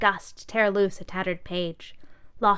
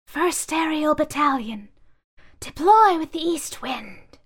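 loud, higher, slow command; commanding officer; 8 semitones higher, 5 dB louder than usual. Acted. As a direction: bark the order. Bag giving orders.

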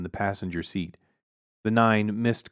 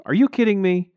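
incredulous; 11 semitones higher, 7 dB louder than usual. A narrator's reading.

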